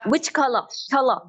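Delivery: slow British accent, "color" ending in "ah". Shown as a demonstration. Teacher converts color question, British accent. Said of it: "British accent में convert करूँ".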